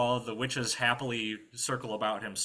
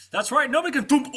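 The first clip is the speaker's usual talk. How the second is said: high, loud brag cut off by a thump; boast, then get gagged mid-phrase; boastful knight; 11 dB louder than usual. Acted.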